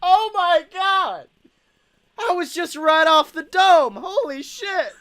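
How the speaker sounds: cracking up. Real, not acted. Host cracking up at co-host's joke. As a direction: howl it through laughter.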